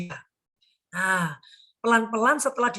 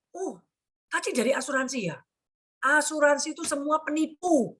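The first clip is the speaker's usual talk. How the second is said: retold irritated accusation, slightly raised pitch; mock angry; 3 semitones higher than usual. Client accusing a visiting insurance agent, mock angry. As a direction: imitate a client grumbling at an agent. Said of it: "Terus orangnya marah-marah".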